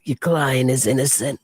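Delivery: lightly gravelly tipster voice; a hint of a gruff caller. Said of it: "I'm gonna be the man with the gravelly voice".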